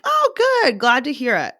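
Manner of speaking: very high, loud mock cheer; gushing reply. Barista's reply that would not happen, gushing. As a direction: overdo the delighted answer. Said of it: "You're not like".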